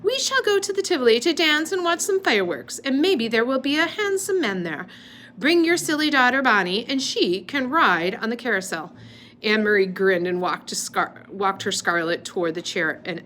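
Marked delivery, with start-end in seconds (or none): 0.0-8.9 lightly raised pretend doll voice. A narrator's reading. Girl playing Scarlett doll, mildly lifted doll voice. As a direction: play-act a grand lady doll. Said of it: "using her doll voice".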